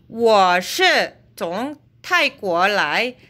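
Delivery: slow "Wo shi zong Taiguo lai."; Mandarin model answer. Shown as a demonstration. Teacher slowly models "Wo shi zong Taiguo lai.". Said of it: "Saya berasal dari".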